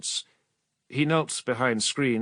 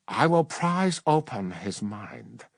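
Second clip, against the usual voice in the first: cold menacing witch; slower than usual. Acted. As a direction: calmly promise the pain. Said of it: "he said".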